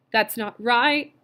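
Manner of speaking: a drawn-out plaintive cry; wailing. A narrator's reading. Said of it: "wailed Missus Bowles".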